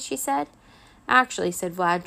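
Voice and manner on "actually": louder, higher, self-important opening; haughty. A narrator's reading. Vlad corrects Minxie about his skateboard, haughty. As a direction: draw yourself up on the word. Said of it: "drawing himself up like Drax".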